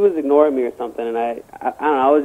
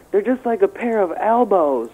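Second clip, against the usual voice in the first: mock whiny complaint, pitched up; exasperated girl; 5 semitones higher than usual. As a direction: mimic an exasperated girl, higher voice. Imitates annoyed prom date.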